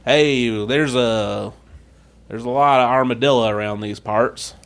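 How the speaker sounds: lightly done Texas accent. Shown as a demonstration. Co-host imitates Texas locals, light Texas accent. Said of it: "People in Texas like say".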